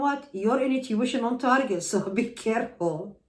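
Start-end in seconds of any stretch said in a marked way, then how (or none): 1.8-3.2 laughing. Real, not acted. Tarot reader warning the viewer to be careful, laughing. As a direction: laugh breaking into the words. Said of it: "I'm so sorry I'm laughing".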